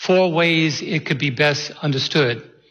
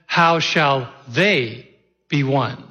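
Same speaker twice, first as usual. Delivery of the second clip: "How shall they be one?" very slow and drawn out; shifting emphasis demo; much slower than usual. Shown as a demonstration. Pastor demonstrating a new emphasis, very slow. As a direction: stretch each word, weighing them.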